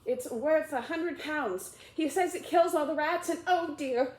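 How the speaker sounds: high, bright gushing voice; excited chatter. Acted. Alice gushing to the mouse about a dog, excited. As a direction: gush about the little dog.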